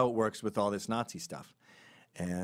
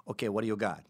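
lightly voiced Mexican-accented hustler; a loose, accidental Mexican accent for an Italian; faster than usual. Hustler haggling at Palermo city hall, botched Mexican accent. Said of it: "I don't know why I'm doing Mexican".

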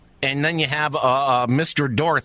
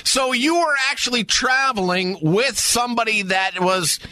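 higher-pitched, puzzled working-out; baffled questioning; 5 semitones higher than usual. Real, not acted. Host untangling who Mister Dorothy is, baffled and high. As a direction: puzzle it out aloud in a raised pitch.

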